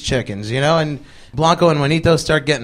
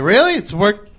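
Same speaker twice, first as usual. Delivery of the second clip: incredulous; 4 semitones higher than usual. Retold or imitated. Doubtful reaction to sudden resolution.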